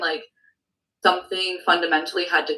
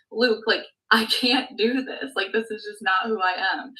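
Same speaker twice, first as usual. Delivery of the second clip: tearful plea; 4 semitones higher than usual. Retold or imitated. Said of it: "And I'm like, crying".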